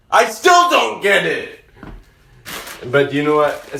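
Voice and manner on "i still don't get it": exasperated shout. Real, not acted. Frustrated by the nonsense story.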